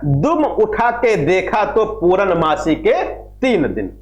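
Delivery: slow, measured poem reading with a dropping close; slow couplet recitation to the class; verse recitation. Shown as a demonstration. Teacher recites Khusro's verse.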